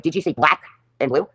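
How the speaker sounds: imitated accuser, slowly stressing "black"; slow, pointed question with "black" singled out; accusing question. Acted interrogation at loss prevention.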